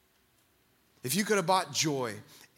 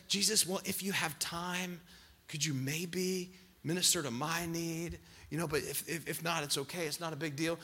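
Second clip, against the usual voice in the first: timid polite cry; 6 dB quieter than usual. Retold or imitated. Imagined polite believer asking Jesus timidly, soft hesitant voice. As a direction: ask almost apologetically, not to bother anyone. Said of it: "a nice little cry that just said".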